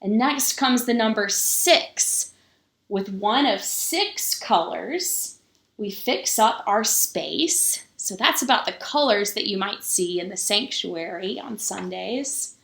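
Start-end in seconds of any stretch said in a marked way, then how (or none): 0.0-7.8 slow, measured picture-book reading with pauses; story reading. A narrator's reading. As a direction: read it to the children slowly, lingering on each number. Reads the picture book aloud.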